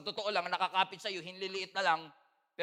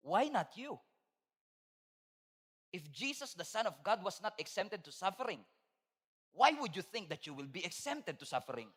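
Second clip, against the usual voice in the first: voice of God; 3 semitones lower, 6 dB quieter than usual. Retold or imitated. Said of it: "Sabi ng Panginoon sa akin".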